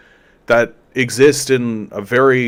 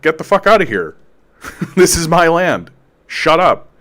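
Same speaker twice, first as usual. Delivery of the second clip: half-laughing get-out-of-here, a bit higher; mock brush-off; 5 semitones higher than usual. Lord tells off the king, laughing mock outrage. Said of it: "the lord can be like".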